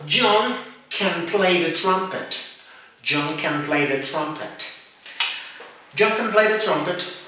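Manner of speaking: can reduced to kn in John can play the trumpet; weak form of can. Shown as a demonstration. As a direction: slur can into a quick schwa. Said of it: "This is the weak form".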